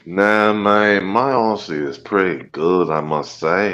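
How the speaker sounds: unconvincing put-on Australian accent; way-off Aussie accent. Guest defends his accent, in way-off Aussie. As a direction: fake Australian, defending your own accent. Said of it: "your Aussies are fucking way off".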